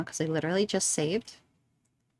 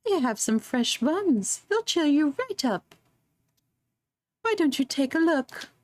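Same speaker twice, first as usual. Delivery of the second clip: put-on old lady voice; 6 semitones higher than usual. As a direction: croon like a sweet old granny. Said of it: "I don't know how to do an old lady voice".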